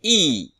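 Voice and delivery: a long, loud, falling "I"; demonstrated I sound. Shown as a demonstration. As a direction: sound out "I" alone, high and drawn out. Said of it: "le son de Madame I, le son".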